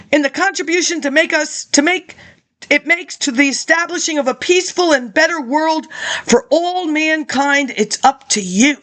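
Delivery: reading out a speech, steady and measured; formal speech read. Acted. Reading an old lecture to listeners, formal speech. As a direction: deliver it like a campaign address.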